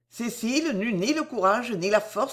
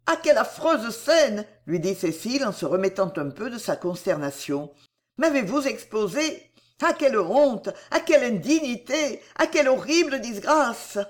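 higher, lamenting lady; Cécile, dismayed; 3 semitones higher than usual. Acted. Cécile laments the scandal to Delville, higher and pained. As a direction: cry out in shame and indignation.

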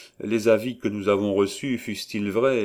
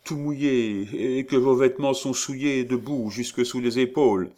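farmer's wife; 5 semitones higher than usual. A narrator's reading. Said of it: "demanda la femme du fermier".

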